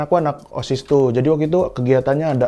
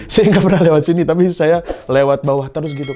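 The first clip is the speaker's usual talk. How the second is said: ordinary delivery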